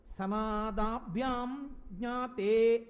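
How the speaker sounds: slow, drawn-out Sanskrit quotation; scripture recitation. Retold or imitated. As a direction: recite the verse with long held vowels. Chanting quoted Sanskrit verse. (శ్లోకాన్ని సాగదీస్తూ పఠించడం)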